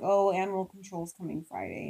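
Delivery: imitating an offhand announcement; nonchalant. Wife imitating husband announcing animal control's visit, nonchalant. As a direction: mention it as if it hardly matters. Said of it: "so he's nonchalantly like".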